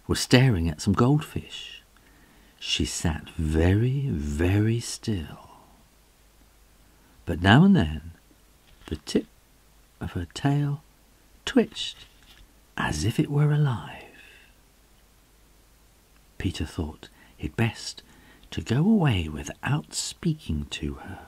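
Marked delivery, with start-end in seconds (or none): 2.6-5.5 hushed. A narrator's reading. Suspense around the cat. 12.8-21.2 whispering. A narrator's reading. Suspense around the cat.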